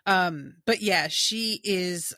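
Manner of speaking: talking through hiccups; hiccuping between words. Real, not acted. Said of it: "I'm hiccuping now".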